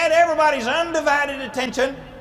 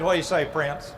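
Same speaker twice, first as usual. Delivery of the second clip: coy smile; 7 semitones lower, 5 dB quieter than usual. Retold or imitated. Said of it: "kinda smiled and said".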